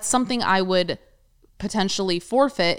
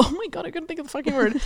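laughing; 7 semitones higher, 3 dB quieter, faster than usual. Real, not acted. Laughs at forgetting a word.

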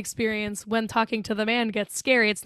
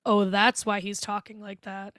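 slower, understated penny-drop; dawning realization. Retold or imitated. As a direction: let the sinister truth slowly sink in. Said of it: "And then it's like".

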